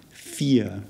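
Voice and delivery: "Vier" said with an f sound and a long e; German Vier. Shown as a demonstration. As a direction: say "Vier" like "feer". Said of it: "the F sound of the German V".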